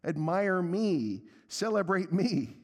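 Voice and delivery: high, drawn-out mock plea; mocking singsong self-promotion; attention-seeking leader. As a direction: parody someone begging for the spotlight. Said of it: "leaders whose constant message is kinda like".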